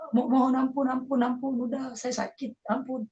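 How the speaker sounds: re-enacted pleading cry. Son begging father to stop the beating, re-enacted high pleading. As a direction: act out begging through a beating. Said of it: "Saya berteriak-teriak mohon ampun".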